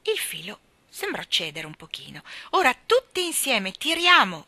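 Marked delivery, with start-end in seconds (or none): 2.5-4.5 loud, raised call to action; rallying shout. A narrator's reading. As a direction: urge everyone to heave together. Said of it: "gridò". (grido d'incitamento)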